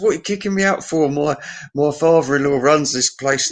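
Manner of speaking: high-pitched mock protest, rushed at first; indignant protest. Thrown-out drunk to the bouncers, indignant protest.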